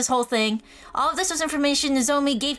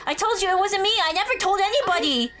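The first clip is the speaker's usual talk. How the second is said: higher-pitched, insistent denial; protesting innocence; 5 semitones higher than usual. Acted. Accused of telling the secret, protesting. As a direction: plead that it wasn't you.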